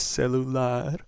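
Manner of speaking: celular with the final "lar" stressed; stress on last syllable. Shown as a demonstration. Teacher applying rule to first word, stress on LAR. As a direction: lean on "lar" at the end of celular. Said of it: "stress is going to be on the last syllable".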